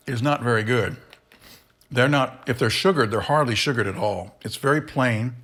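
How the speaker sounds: talking through a mouthful; chewing while talking; mouth full. Real, not acted. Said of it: "Sorry, I'm talking with my mouth full".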